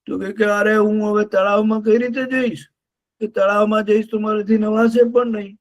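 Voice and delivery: a touch of whiny sobbing elephant; mock crying. Elephant whimpers to friends about the shrinking lake, mildly tearful. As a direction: lament lightly, like a big crybaby. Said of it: "રડવા માંડ્યો".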